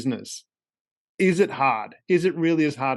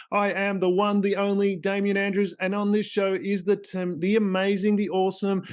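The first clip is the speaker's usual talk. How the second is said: hammed-up host hype; 5 semitones higher than usual. Hyping host and guest intro.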